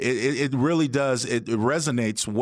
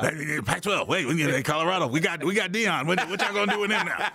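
high, hammed-up imitation of Cliff teasing, getting higher and laughing by the end; imitating Cliff; 6 semitones higher than usual. Co-host imitates late Cliff gloating about Deion, in a high mocking voice. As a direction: play Cliff ribbing the Pac twelve, voice climbing higher into a laugh. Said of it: "'Cause he'd be like".

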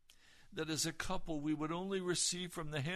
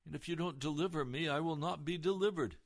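raised, earnest retold plea to the Lord; pleading prayer; 3 semitones higher, 5 dB louder than usual. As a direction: cry it out to God, a touch louder. Retold desperate prayer to God.

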